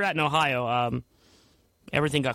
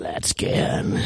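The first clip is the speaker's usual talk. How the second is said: whisper; 6 semitones lower than usual. Pretend. Whispered aside.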